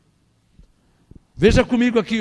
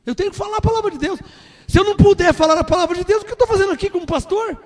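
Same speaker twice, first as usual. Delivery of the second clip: higher and louder, faster, full fervor; preaching with fervor; 8 semitones higher, 3 dB louder, faster than usual. Real, not acted. Pastor defending his right to preach, fervent and loud. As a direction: preach it with fire and conviction.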